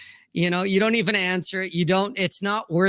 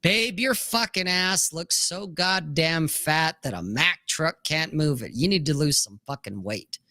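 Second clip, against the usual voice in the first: deadpan. Retold or imitated. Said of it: "I say it so deadpan".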